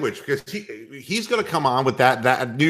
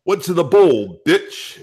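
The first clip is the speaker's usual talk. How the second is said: Dice Clay bit; 2 semitones higher, slower than usual. Retold or imitated. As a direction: snarl it with a cigarette in hand. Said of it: "Dice Clay".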